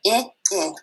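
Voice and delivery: "I, I" as the short i in igloo; short i sound. Shown as a demonstration. Teacher repeating the short I sound. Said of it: "What's that short sound for I again?".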